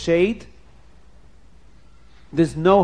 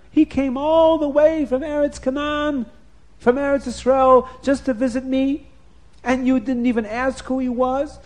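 higher, louder scolding; angry husband; 9 semitones higher, 5 dB louder than usual. Acted. Yishmael rebuking his wife for turning away his father, loud and angry. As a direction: tell her off for shaming his father.

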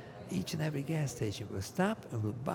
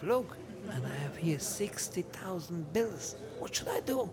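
hushed whisper; 6 semitones higher, 3 dB quieter than usual. Retold or imitated. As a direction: whisper it like a secret. Secret aside about the bills.

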